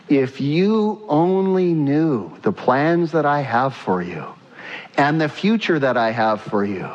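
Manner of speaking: a hint of a fatherly God soothing worry; lightly voiced God. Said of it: "What's he saying".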